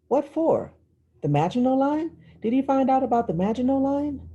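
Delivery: put-on high, eager young girl asking; a child's excited prying; eager little sister. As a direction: press your sister for the secret. Claudia pressing her sister eagerly.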